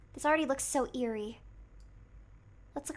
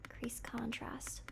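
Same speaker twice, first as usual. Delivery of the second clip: whispering; 2 semitones lower, 13 dB quieter, slower than usual. Real, not acted. Reading out photo settings.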